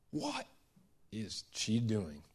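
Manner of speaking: hushed, slow mock onlooker's murmur; murmured chatter. Onlookers chattering round the room about the woman, hushed murmur. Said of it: "there's chatter going around the room".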